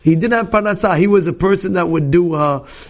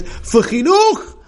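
demanding mother; 7 semitones higher, slower than usual. Retold or imitated. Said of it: "He says".

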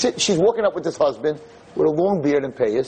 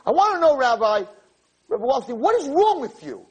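retold scream; 13 semitones higher than usual. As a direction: demand an answer, fired up. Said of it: "she starts screaming at me".

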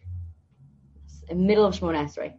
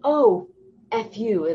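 mock curse; 5 semitones higher, 5 dB louder, much slower than usual. Coworker cursing at the computer.

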